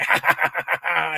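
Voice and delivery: mock breathy belly laugh; put-on hearty guffaw; imitating dad's laughter. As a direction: cackle on, ignoring the patient. Imitating dad laughing again.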